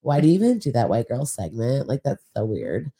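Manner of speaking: put-on white girl voice. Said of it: "That's my white girl voice".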